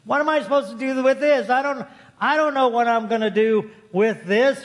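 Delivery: acting out mild helpless frustration; storyteller voicing a woman at a loss; frustrated. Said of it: "Very frustrated".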